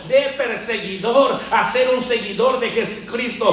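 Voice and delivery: forceful preacher hammering parallel phrases; rousing sermon delivery; fervent preaching. Real, not acted. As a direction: proclaim it with conviction, pushing each repetition. Preaches Paul's change to congregation.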